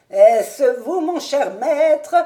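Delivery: high, slow joyful cry; exclaimed. A narrator's reading. Old servant greeting his returning master, joyful cry. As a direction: cry out in glad surprise. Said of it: "s'écria-t-il".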